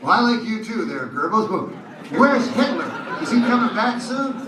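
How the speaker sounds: high, loud, whining dog asking for its master; anxious dog voice. Retold or imitated. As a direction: pine for the missing owner. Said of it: "that dog would wake up and go".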